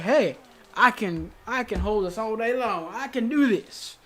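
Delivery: lightly voiced Southern accent boast; imitating a wrestler's swagger in a mild Southern accent. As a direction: show off with a touch of a Southern accent. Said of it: "I don't know why she has a southern accent".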